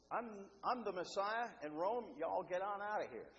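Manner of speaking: lightly put-on Southern US accent. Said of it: "With a southern accent, too".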